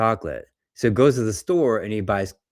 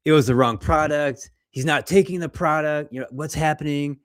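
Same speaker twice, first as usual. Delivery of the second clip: higher, anxious inner voice, lightly acted; panicky inner thoughts; 6 semitones higher than usual. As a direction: replay the panic of doubting yourself, mildly. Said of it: "you get those thoughts".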